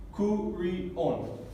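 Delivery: curión spaced out as cu-ri-ón; split into syllables. Shown as a demonstration. Teacher showing another division in the word, split into syllables. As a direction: sound out each syllable of curión, stress on the last. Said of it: "Y aquí también".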